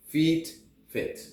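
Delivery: "Feet" long and high, "fit" short. Shown as a demonstration. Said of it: "the long E and the short E".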